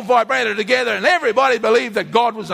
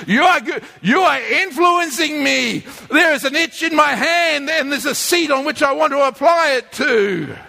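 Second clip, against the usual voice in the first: mildly exasperated, pitched up; exasperated parent; 4 semitones higher than usual. Acted. Parent warning a whinging child of a smack, mild exasperation. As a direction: warn the child with mounting exasperation.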